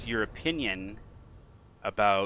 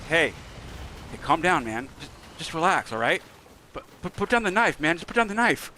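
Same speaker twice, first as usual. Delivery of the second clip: higher, louder hammed-up soothing; imitating calming dad; 7 semitones higher, 5 dB louder than usual. Dad to upset daughters, higher loud mock soothing. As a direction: replay yourself talking your upset daughter down. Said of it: "I'd be like".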